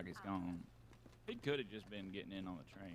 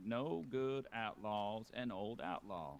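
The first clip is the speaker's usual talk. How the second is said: slow quote; slower than usual. Retold or imitated. Quoting an outlaw's saying.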